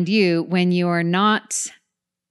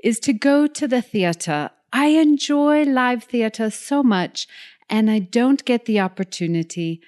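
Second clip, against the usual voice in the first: high-culture voice; 4 semitones higher than usual. Acted. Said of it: "in my high culture voice?".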